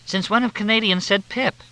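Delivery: high, sharp tipsy challenge; scornful old lady. A narrator's reading. Leona Hatch mocking the fake Canadian. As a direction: needle him like a sharp old woman.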